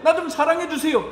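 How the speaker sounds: a weeping person asking for help; tearful plea. Pretend. Pastor imitates weeping person begging congregation, mild plea. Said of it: "눈물 나는 사람이 와가지고 무릎 꿇고".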